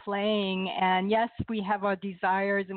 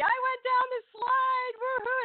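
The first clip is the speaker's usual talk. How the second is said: retold yell; 14 semitones higher than usual. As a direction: crow it like a kid who just did it. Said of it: "I'm yelling to everybody".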